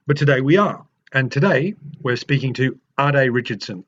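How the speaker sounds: lively, emphatic host introduction; podcast intro read. Acted. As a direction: welcome listeners with rehearsed, stressed phrasing.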